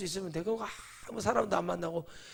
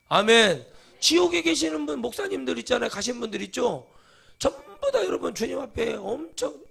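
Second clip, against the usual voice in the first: much higher and louder, full-force preaching; preaching shout; 6 semitones higher, 7 dB louder than usual. Real, not acted. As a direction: blast it at the congregation. Preacher erupting at congregation.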